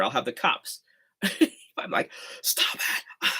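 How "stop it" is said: kept low. Shown as a demonstration. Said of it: "I can't do that here".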